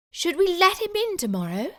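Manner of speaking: small high questioning voice; high worried mouse. Acted. Wife worrying at night, high mousy voice. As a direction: ask it like a fretful mouse.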